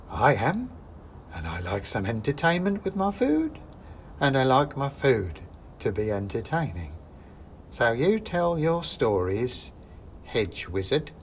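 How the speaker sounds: a hint of a hungry witch; menacing witch. Witch threatening.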